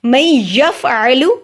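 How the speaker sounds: slow मैं यफ़अलु, gliding into a doubled य; stretched मैं यफ़अलु with throaty अ; merged noon. Shown as a demonstration. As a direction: hum मैं straight into य with no न. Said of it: "हम या करेंगे".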